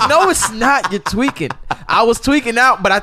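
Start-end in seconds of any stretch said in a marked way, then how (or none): 0.1-1.5 higher, mocking brush-off; dismissive friends. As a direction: wave off a panicking buddy. Friends dismissing his panic.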